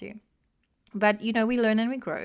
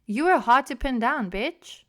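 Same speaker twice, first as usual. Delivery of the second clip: pointed direct address; 4 semitones higher, 5 dB louder than usual. Real, not acted. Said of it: "say it on the podcast out loud to him".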